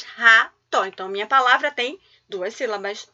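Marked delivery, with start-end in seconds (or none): 0.0-0.8 "Ra, to" as two separate voice impulses; split into syllables. Shown as a demonstration. Teacher counting syllables for pupils, "Ra, to" split in two. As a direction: say "Ra, to" one syllable at a time. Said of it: "Duas vezes".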